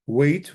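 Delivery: "wait" ending on t, no final y sound; silent yod. Shown as a demonstration. Teacher shows the feminine form, "wait" with silent final yod. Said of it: "with the silent yod".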